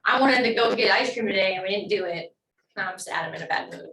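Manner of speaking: mock sulking, dropping off at the end; pouty, sulky. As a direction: pout like someone not getting their way. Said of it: "this type of sad is more like".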